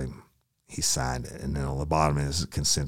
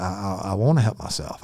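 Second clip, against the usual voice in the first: higher, stammering plea; stammered plea; 6 semitones higher, 4 dB louder than usual. Retold or imitated. Suspect pleading with the arresting officer, stammered plea. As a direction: blurt it out, desperate.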